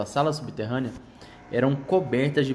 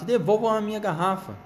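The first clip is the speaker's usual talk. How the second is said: high, shrill rat squeal; twitchy squeaking rat voice; 7 semitones higher than usual. Acted. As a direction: squeal at them like a rude rat. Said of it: "guinchou o rato".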